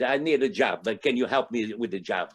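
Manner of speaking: lightly put-on Italian accent. Little Italian guy praying for work, Italian accent. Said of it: "can we do accents now?".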